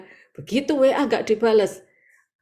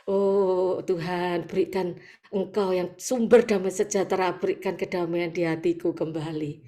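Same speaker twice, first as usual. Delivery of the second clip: soft prayer; 5 dB quieter than usual. Acted. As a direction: pray softly to God. Short prayer inside sermon. (doa lirih dan lembut)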